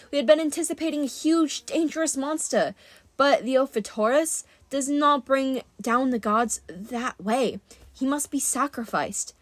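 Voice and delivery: lightly voiced huntress, measured and grave; solemn huntress. Narrator plays Zoe explaining the danger.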